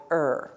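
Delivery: "er" as a weak r-coloured vowel; unstressed vowel sound. Shown as a demonstration. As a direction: say "er" like the unstressed ending of a word. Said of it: "When it's unstressed, you're gonna say".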